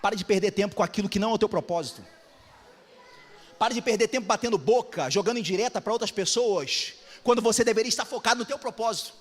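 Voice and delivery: ordinary talk, nothing marked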